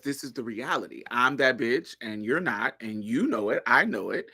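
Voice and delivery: deadpan. Retold or imitated. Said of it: "deadpan, like, non-emotional".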